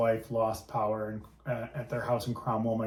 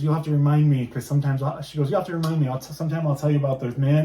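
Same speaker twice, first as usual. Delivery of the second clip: teasing grandma; 3 semitones higher, 7 dB louder, faster than usual. Retold or imitated.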